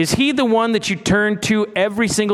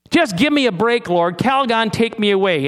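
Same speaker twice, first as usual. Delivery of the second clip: mock ad plea; 4 semitones higher than usual. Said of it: "those of you who remember that commercial".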